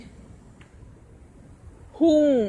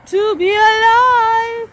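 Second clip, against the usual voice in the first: emotional outburst; 8 semitones higher, slower than usual. Real, not acted. Emotional peak, cry heard.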